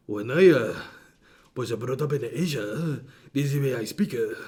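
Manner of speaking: exaggerated Asian accent with swooping pitch; mock Asian accent. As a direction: imitate a heavy Asian accent. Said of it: "speaking with his natural Asian accent".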